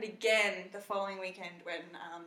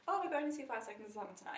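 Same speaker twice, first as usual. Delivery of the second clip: quick, even, no big deal; casual matter-of-fact tone; 4 dB quieter, faster than usual. Retold or imitated. Telling a waitress about tonight's concert, casual and matter-of-fact. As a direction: toss it off quickly without excitement. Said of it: "I said it in that tone".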